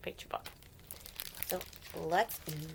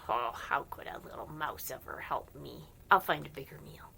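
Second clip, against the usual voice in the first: lion's thought; 6 semitones lower than usual. Acted. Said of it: "Maybe he was thinking".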